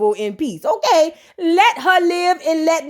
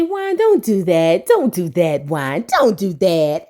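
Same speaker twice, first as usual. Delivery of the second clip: tag retold pleading; 8 semitones lower, slower than usual. Retold wife pleading with Juan.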